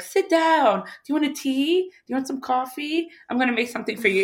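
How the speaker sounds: high, coaxing offers of tea; fussing relative. Retold or imitated. Haitian relative fussing over her, high and coaxing. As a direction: stall the bad news with hospitality. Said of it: "Haitians are really good".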